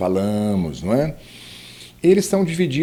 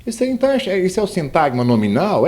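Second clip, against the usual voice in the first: lightly voiced student, higher at first; questioning student; 5 semitones higher, faster than usual. Student asks teacher about the nominal phrase, mildly puzzled questioning. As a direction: pipe up with a pupil's doubt. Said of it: "Mas fala".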